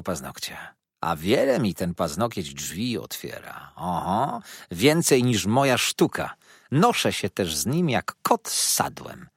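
lightly voiced mock-grand speech; a hint of theatrical bragging; orating dwarf lady. Karlica wygłasza tyradę. (lekko teatralnie, głosem karlicy)

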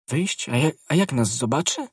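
high, anxious, stammered question; alarmed question. A narrator's reading. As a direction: echo it in worried disbelief, pitched high. Wife alarmed at going out.

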